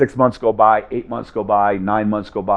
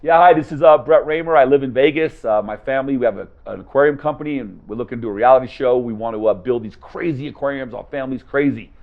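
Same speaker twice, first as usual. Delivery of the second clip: eager cold-call pitch; 3 semitones higher than usual. Shown as a demonstration. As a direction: pitch your reality show to a stranger on the phone. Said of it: "I'm gonna show you how the first couple of phone calls went".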